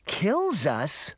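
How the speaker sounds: understated disbelief, voiced as a kid; mild shocked cry. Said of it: "Daphne cried".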